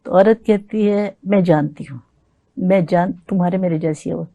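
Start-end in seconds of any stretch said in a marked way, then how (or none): 1.2-4.2 stately nazm recitation. Acted. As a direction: recite the woman's reply gently. Woman's reply in nazm.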